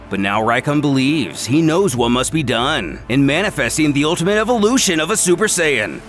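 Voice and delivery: ordinary delivery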